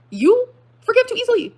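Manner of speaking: very high, loud, slow incredulity; outraged disbelief. Real, not acted. Throwing ex's claim back at them, outraged disbelief. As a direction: stretch it out, scandalized and loud.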